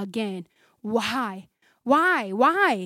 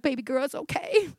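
consoling lady; 2 semitones higher, 5 dB quieter than usual. Retold or imitated. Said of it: "The lady was like".

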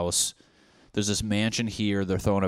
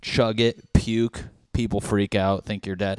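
normal talking voice

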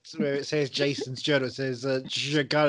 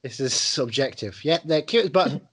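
mock concession. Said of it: "I didn't realize this was".

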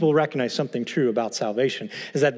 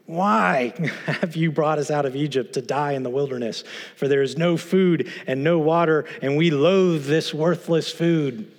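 whiny voice. Retold or imitated. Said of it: "read this in a whiny voice".

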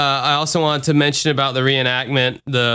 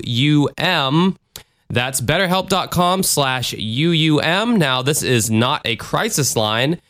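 smooth, steady sponsor read; podcast ad read. Acted. Host interrupting the podcast for a sponsor, conversational ad read. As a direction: read the sponsor copy clearly to listeners.

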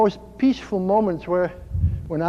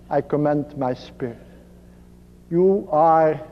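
tender surrender; 5 semitones lower than usual. Acted. Jesus surrendering to his Father, acted.

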